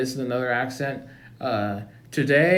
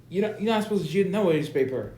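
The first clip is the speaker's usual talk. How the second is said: quick, higher mock African American accent; 5 semitones higher, faster than usual. Principal warns Baby Scrubs about cheating, African American accent. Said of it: "Time for African American accent now".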